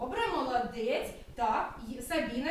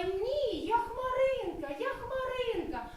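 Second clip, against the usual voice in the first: mild insisting cry; 8 semitones higher, slower than usual. Acted. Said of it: "А вона все кричала".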